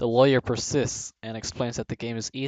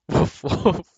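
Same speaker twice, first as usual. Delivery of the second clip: mock barking, higher and louder; dog bark; 5 semitones higher, 7 dB louder than usual. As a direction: bark like a dog to fool the cop. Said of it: "barks the brunette".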